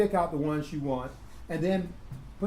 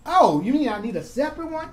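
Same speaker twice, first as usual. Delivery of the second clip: mock surprised student; 8 semitones higher, 4 dB louder than usual. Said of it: "when you come to me and say".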